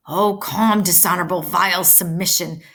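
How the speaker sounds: loud, indignant declaiming; indignant outburst. Acted. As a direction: spit out the disgrace. Mercutio outraged at Romeo's submission.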